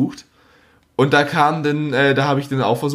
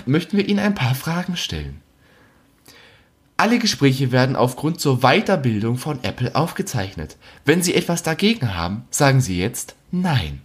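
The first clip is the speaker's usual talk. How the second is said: phone menu voice. Retold or imitated. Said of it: "kommt so".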